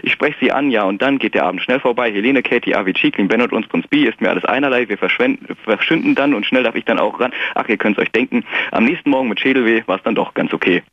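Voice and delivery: measured, rhythmic rhyming recitation; poem recital. Acted. Caller reciting his political poem on the radio, rhythmic. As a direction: read the verses out with a steady poetic beat.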